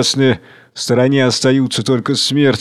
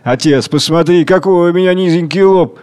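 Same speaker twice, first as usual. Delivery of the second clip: understated tearful plea; man crying to his father; mild weeping; 4 semitones higher, 3 dB louder than usual. Acted. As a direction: complain through a few tears. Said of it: "Плачет".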